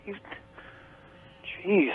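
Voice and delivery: ordinary talk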